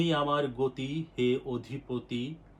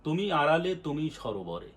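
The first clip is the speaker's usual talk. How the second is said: recited line; 2 semitones higher, 4 dB louder than usual. Shown as a demonstration. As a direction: quote the verse in full reciting voice. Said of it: "এখানে একটা কথা আছে দেখুন".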